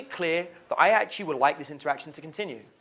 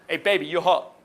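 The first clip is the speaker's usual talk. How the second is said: douchey bro; 5 dB louder than usual. Retold or imitated. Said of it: "those douchey bros in the bar".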